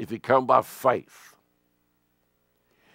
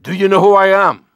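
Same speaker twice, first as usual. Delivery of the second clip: louder, demanding, higher; indignant angel; 3 semitones higher, 6 dB louder, faster than usual. Retold or imitated. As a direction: pull rank with a challenge. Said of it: "He said".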